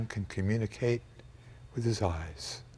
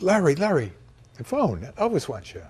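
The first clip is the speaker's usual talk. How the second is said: calling out; 5 semitones higher, 4 dB louder than usual. Retold or imitated. Someone wakes him calling out.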